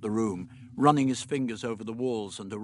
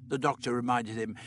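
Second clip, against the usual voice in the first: ordinary delivery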